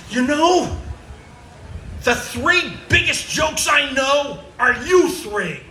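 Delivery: put-on high, loud outburst at the kids; fed-up father snapping at his kids; exploding dad. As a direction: blow up in exasperation. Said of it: "George just explodes".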